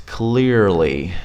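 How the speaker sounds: "Clearly" drawn out in two careful parts; careful pronunciation. Shown as a demonstration. Teacher helping a learner who can't say it, careful pronunciation. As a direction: stretch "Clearly" syllable by syllable. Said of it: "break it down into syllables".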